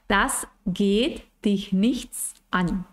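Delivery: very slow, deliberate brush-off; dismissive reply. Shown as a demonstration. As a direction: spell out the brush-off word by word. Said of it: "de una forma muy natural".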